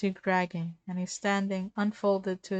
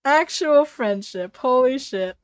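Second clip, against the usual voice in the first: excited; 4 semitones higher, 9 dB louder than usual. Real, not acted. Reader gushing over the friendship. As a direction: savour each word.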